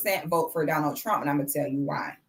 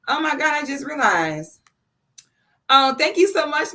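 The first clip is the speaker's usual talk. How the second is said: higher, bursting with thanks; real happy surprise; surprised delight; 6 semitones higher, 3 dB louder than usual. Real, not acted. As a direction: caught off guard by gifts, gush. Surprised by super chats on stream.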